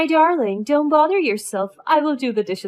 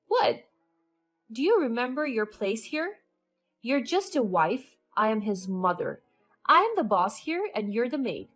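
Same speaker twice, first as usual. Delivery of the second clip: scolding; 3 semitones higher, 4 dB louder than usual. Acted. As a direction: put her in her place, threatening. Mother-in-law scolds and threatens.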